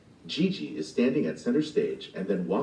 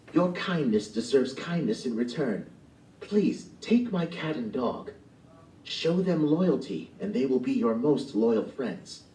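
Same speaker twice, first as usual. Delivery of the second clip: lightly voiced kindly old woman, higher; 4 semitones higher than usual. Old woman giving Gigi her cat and dog, kindly.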